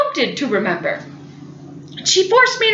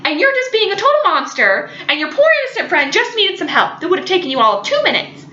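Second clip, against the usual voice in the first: higher, faster scolding that lays on the guilt; guilt-tripping scold; 5 semitones higher than usual. Retold or imitated. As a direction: nag her sister into feeling bad. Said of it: "totally guilt trips me".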